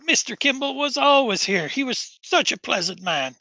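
put-on lilting Norfolk-accented old acquaintance, reminiscing. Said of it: "a Norfolk fucking accent".

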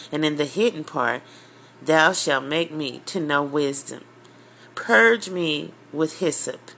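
measured scripture reading. Real, not acted. Preacher reading Psalm fifty-one with the congregation, solemn and measured.

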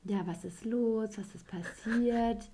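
imitating him acting clueless; mock clueless guy. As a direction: play dumb, drawn out and innocent. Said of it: "dann fragt er so".

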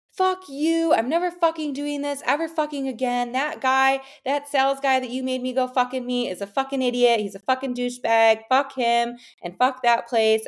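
imitating an enraged boyfriend; retold furious rant. Girlfriend imitating her boyfriend's furious rant, mock angry. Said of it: "foaming at the mouth, angry".

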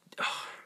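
breathy sigh; sigh, lost for words; short sigh. Real, not acted. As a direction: let out a short sigh mid-thought. Lost for words gushing over Kyle.

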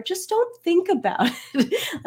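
high mock advice, laughing through. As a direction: parody it with a laugh. Mocking advice clients were given.

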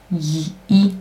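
the J said as an "ee" glide; German J sound. Shown as a demonstration. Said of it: "no alemão faz som de". (som de I do jota alemão)

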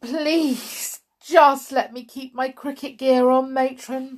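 put-on high, urgent boy's plea; pleading. A narrator's reading. Tom begs to keep his cricket gear, pleading. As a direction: beg as a desperate schoolboy. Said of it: "pleaded Tom".

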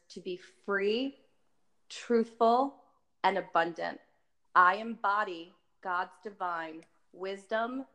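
slow, carefully enunciated recital. Shown as a demonstration. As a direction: read it slowly, every word distinct. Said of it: "I'll say it slower".

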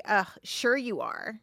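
understated sarcastic disbelief; groan, then doubt the apology; mildly scornful brush-off. Acted. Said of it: "Sarcasm is also a form of verbal".

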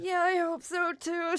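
high, loud acted tearfulness; starting to cry. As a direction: burst into hammed-up tears. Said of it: "She starts crying".

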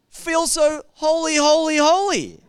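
mock the lyric while laughing. Real, not acted. Pastor mocking the song's holy line, laughing.

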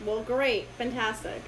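understated, unimpressed acceptance; retold resigned dismay. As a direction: accept it with no enthusiasm at all. Retold dismay at sixth-grade class.

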